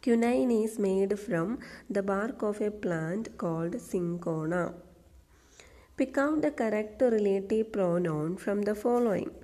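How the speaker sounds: slow, deliberate exam question read-out; slow dictation reading. Shown as a demonstration. Teacher reading a PSC question aloud slowly. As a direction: read each word slowly for the class. Reads corrected sentence slowly.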